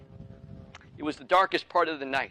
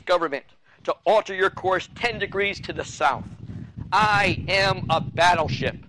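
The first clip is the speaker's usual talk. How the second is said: angry yell; 3 semitones higher, 3 dB louder than usual. Acted. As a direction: bark it down the radio like a furious captain. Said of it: "he yelled back over the".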